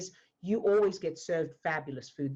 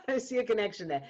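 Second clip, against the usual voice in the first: chuckling through the words; laughing; 4 semitones higher, faster than usual. Real, not acted. Coach amused at her own pun, laughing as she speaks. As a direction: laugh it out in delight.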